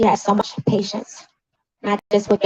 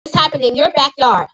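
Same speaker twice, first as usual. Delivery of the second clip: raised pitch, emphatic public condemnation; indignant rebuke; 4 semitones higher than usual. Real, not acted. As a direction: call them out with real outrage. Rebukes the newspaper over sister's death.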